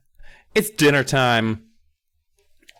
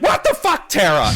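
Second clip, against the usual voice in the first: high, indignant outburst; mock outrage; 7 semitones higher, 4 dB louder than usual. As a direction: yelp it in acted disbelief. Acting boy's outraged reaction.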